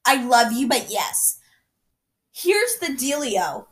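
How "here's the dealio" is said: slow, sing-song Southern teacher; kindergarten teacher voice. Acted. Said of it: "I sound like a kindergarten teacher from the South".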